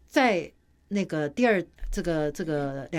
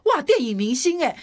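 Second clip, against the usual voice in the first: quoting the compliment through laughter, louder; laughing quote; 6 semitones higher, 5 dB louder than usual. Retold or imitated. Retelling assistant's praise after weight loss, laughing. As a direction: giggle out the flattering words.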